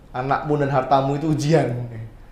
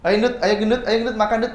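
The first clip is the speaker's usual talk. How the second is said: mocking bully; 4 semitones higher than usual. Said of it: "orang tua itu membuli anak".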